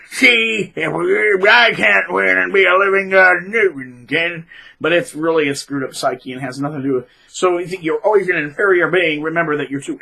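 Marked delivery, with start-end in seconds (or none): 0.1-4.5 mock bitter narc. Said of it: "and go".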